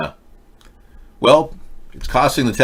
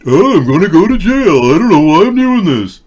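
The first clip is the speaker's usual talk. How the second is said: higher, louder panicked inner voice; panicked driver voice; 8 semitones higher, 9 dB louder than usual. Pretend. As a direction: play the fleeing driver in a panic. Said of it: "what's going through his head?".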